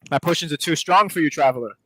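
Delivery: gruff proud merchant pitch. Retold or imitated. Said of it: "potion seller".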